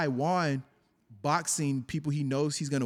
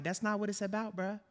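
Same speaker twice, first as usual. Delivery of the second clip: higher, softer, unbothered imitation; calm quoted fighter; 5 semitones higher, 5 dB quieter than usual. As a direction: quote him calmly, lightly pitched up. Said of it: "He was just so calm".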